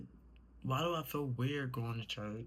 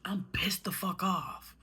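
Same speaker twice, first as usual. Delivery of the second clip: 1 tearful whispered anger; 6 semitones higher, 4 dB louder than usual. Real, not acted. Furious at God, voice breaking.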